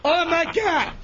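real upset, building outburst; exasperated yelling. Real, not acted. Chunks upset after being smacked, yelling. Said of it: "stop yelling".

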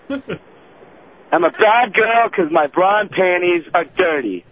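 drawn out, slow and grudging; slow reluctant repeat. Real, not acted. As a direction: say it slowly, unwillingly. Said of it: "here's what I want you to say".

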